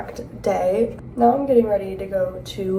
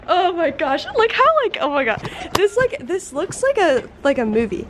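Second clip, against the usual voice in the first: excited; 5 semitones higher than usual. Real, not acted. Overwhelmed by the costume look.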